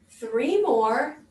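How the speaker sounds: ordinary talk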